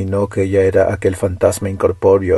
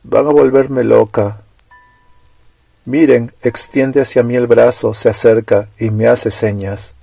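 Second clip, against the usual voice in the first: terrified; 3 semitones higher, 4 dB louder than usual. Acted. Terrified girl sees the ghost.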